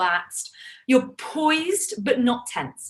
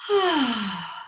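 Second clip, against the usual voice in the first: gentle voiced sigh. Shown as a demonstration. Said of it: "do one more of those for me".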